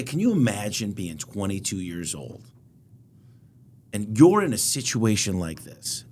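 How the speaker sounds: inviting. Shown as a demonstration. Coaching a storyteller, inviting listener in.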